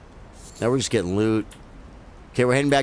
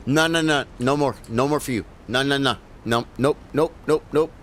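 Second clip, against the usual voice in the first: imitating a freaked-out dad; 4 semitones higher than usual. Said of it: "and he'd be like".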